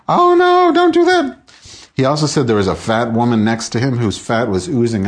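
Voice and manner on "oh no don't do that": high, loud screaming crowd; mock audience scream. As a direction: shriek it like a shocked audience. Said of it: "everybody was just screaming, like".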